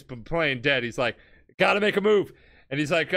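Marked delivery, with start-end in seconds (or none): 1.6-2.3 hyped. Retold or imitated. Jotaro deciding to strike.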